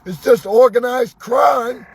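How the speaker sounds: mocking innocent police voice; sarcastic. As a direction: sneer it like a fake excuse. Sarcastic mock of police excuse.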